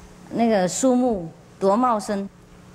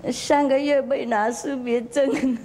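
laughing; 4 semitones higher than usual. Real, not acted. Monk teasing students, laughing.

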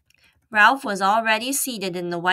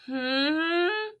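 murmured; 8 semitones higher, 3 dB quieter than usual. Acted. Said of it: "murmured Keith".

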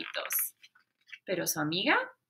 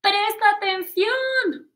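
stern order; 10 semitones higher, 7 dB louder, slower than usual. Acted. Teacher scolds David.

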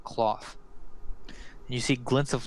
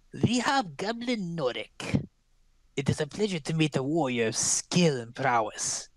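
lightly voiced crone, whispered ending; a hint of the witch, sly; old crone; 2 semitones higher than usual. Crone greeting the hobgoblin warrior Norik. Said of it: "and she says".

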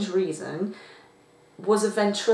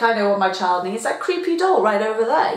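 mock clueless parent; 2 semitones higher, 5 dB louder, faster than usual. Parent picking a creepy doll for the child, mock confident. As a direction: play a parent who is sure of the choice. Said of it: "Just imagine being a parent".

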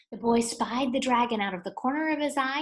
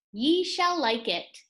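royal proclamation; 4 semitones higher, 4 dB louder than usual. Acted. King's proclamation.

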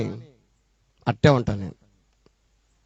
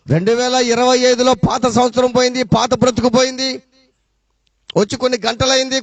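preaching; 4 semitones higher than usual. Real, not acted. Preaches a New Year challenge.

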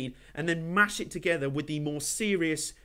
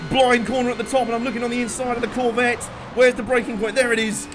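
excited; 4 semitones higher, 5 dB louder than usual. Real, not acted. Tense overtake at blind corner.

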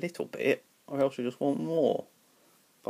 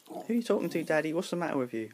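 higher, puzzled pet voice; voiced cat; 5 semitones higher, faster than usual. Cat asking Daddy who he talks to, higher and puzzled. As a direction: play the cat baffled by Daddy.

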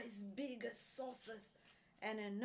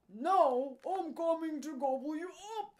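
loud, fast, higher-pitched threat; troll's roar; 6 semitones higher, 10 dB louder, faster than usual. A narrator's reading. Troll threatening the big goat, loud rushed roar. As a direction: roar it quickly as a hungry troll. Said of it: "roared the troll".

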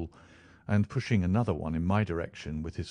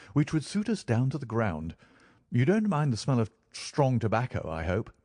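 higher-pitched, lightly voiced eager flatmate; delighted Holmes; 4 semitones higher than usual. Holmes sells Watson on the rooms, lightly voiced delight. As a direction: lightly play a keen man proposing shared rooms.

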